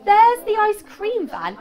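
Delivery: high, loud, drawn-out exclamation; calling out. Shown as a demonstration. Teacher carrying on the example speech, called out high and loud. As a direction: call it out slowly and loudly.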